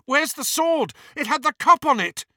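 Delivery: high, urgent shouting; frantic shout. A narrator's reading. Harry searching for the sword in burning treasure, frantic high shout. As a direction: call out frantically, voice pitched right up.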